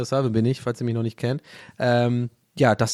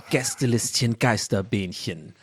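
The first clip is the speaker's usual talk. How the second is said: advertising voice; 5 semitones lower than usual. Acted. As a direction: read the names like a radio ad. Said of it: "wenn ich meine Werbestimme mache".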